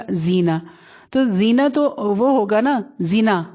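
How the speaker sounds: short vowel in زینا, no stretch; چھوٹا زِنا. Shown as a demonstration. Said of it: "آپ یوں پڑھتی ہیں". (زینا کی ی کھینچے بغیر، مختصر)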